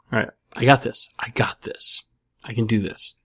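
whispered pep talk to himself, very soft; self-psyching whisper. Real, not acted. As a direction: psych yourself up under your breath. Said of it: "I'm stalling".

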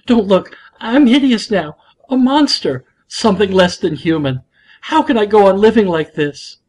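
husband ranting that he's a monster; hammed-up rant. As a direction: ham up the despair like a soap opera. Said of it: "stopped in the middle of his rant".

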